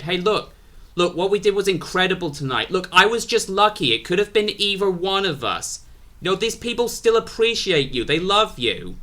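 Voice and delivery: high-pitched, earnest mock pleading; consoling plea. Consoling his beaten tag partner.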